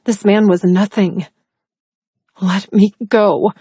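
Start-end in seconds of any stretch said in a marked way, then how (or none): 2.4-3.5 snarled. Acted. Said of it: "I snarled".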